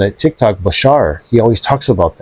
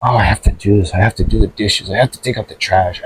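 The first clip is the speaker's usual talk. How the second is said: lower, softer reluctant chore voice; mild reluctant grumble; 4 semitones lower, 3 dB quieter than usual. Shown as a demonstration. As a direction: grudgingly list the chores as a burden. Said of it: "telling yourself".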